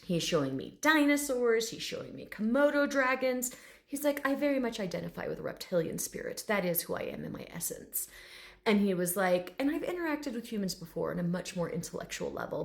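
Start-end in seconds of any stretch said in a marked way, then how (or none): 4.3-8.1 quiet, lightly dignified reptile voice; a hint of refined intellectual; proper gentleman. Bearded dragon explaining his essence, softly dignified. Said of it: "this very proper gentleman". 9.6-12.6 softer, lightly voiced intellectual; a hint of learned dignity; proper gentleman. Dragon recalling past talks with humans, mildly lofty. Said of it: "this very proper gentleman".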